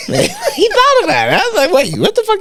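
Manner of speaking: high, loud laughing through words. Real, not acted. Telling his friend the story while laughing hard. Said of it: "laughing while retelling".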